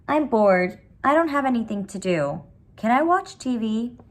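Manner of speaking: put-on high, whining little girl; whiny child. A narrator's reading. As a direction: whine like a bored sick kid. Sick child whining to Mama.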